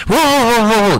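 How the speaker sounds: high-pitched mock dog barks; comic imitation of a German Shepherd barking; barking dog impression. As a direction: bark it out like a dog, high and falling. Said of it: "he was talking to his master and shit".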